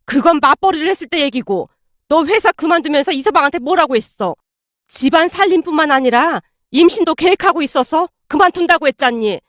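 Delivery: mildly heated motherly rebuke; sharp rebuke. Acted. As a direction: rebuke a daughter point by point. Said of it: "아내에게 쏘아붙이고 있었고".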